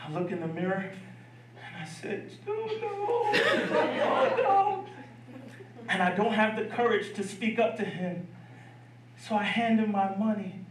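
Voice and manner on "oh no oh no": high, laughing cry of horror; dismayed wail. Retold or imitated. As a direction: wail it like a kid seeing a ruined haircut. Kid sees his ruined haircut.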